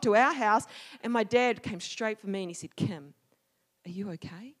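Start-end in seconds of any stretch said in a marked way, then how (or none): 2.7-4.6 concerned dad. Retold or imitated. Dad checks on upset child.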